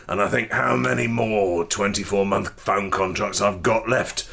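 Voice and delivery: musing old Cockney, lightly voiced; wistful Cockney lover. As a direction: reflect on mortality to your love in Cockney.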